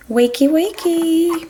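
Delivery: high singsong wakey wakey; singsong wake-up. Acted. Parent waking toy horses, high singsong. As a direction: sing them awake.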